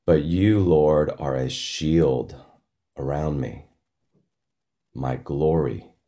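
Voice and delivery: reading scripture slowly to meditate; slow meditative reading. Shown as a demonstration. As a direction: linger on each phrase, unhurried. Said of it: "I'll read some of them slowly".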